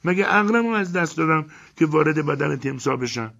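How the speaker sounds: very high, loud indignant woman's voice; outraged yelling. Acted. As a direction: Elena rants about entering the crocodile, outraged. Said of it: "داد و غار را انداخت".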